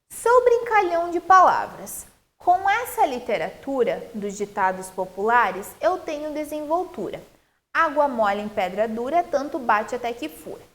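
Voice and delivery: lively recitation of a cordel verse; poem reading. Real, not acted. Teacher reading a cordel stanza to pupils, recitation. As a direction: read the stanza out with a lilting rhythm.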